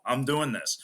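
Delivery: firm, stubborn I'm doing this; determined. Retold or imitated. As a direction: insist through frustration. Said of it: "more of an anger and a, like, frustration".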